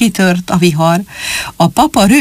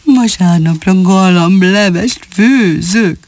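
jubilant; slower than usual. Acted. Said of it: "ujjongott Rödfülűné".

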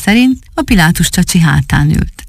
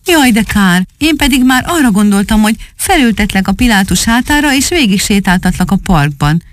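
put-on disappointed boy; 5 semitones higher than usual.

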